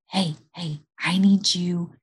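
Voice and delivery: practical whisper. Retold or imitated. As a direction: hush him down gently, almost whispering. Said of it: "I will practically whisper to him".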